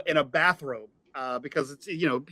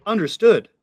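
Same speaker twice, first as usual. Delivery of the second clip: computer voice; 4 semitones higher, 5 dB louder than usual. Acted.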